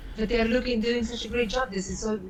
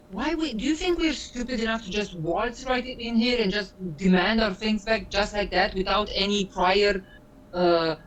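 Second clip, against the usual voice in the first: exasperated. Acted. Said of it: "I just say, sighs".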